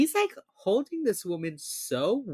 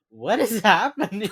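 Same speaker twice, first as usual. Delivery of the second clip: laughing disbelief; 5 semitones higher, 8 dB louder than usual. Retold or imitated. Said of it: "and I was like".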